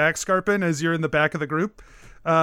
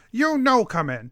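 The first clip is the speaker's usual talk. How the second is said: kobold; 3 semitones higher than usual. Acted. GM voices the kobold.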